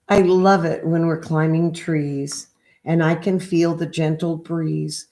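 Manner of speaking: gentle sing-song picture book read; reading to children. Acted. Reads picture book aloud.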